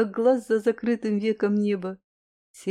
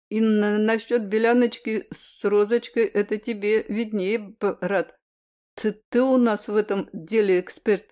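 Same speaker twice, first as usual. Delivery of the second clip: stammering. Acted. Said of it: "Чуть заикаясь".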